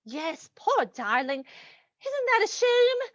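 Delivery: slow, drawn-out false sympathy; mock pity. Captor pitying gagged Muriel, mockingly sympathetic. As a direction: coo with pretend pity, very slowly.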